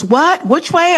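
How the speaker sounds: mock confused surprise. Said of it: "He goes".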